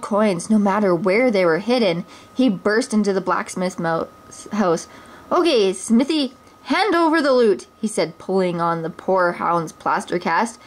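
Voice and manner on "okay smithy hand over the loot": higher, greedy bully's demand; a hint of a swaggering sheriff. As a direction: shake down the blacksmith.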